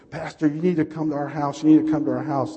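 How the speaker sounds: urgent, insistent retold plea; mock panicked yelling. Church lady phoning her pastor, mock panicked yelling. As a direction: imitate a frantic caller with restrained volume. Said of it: "She's screaming and yelling".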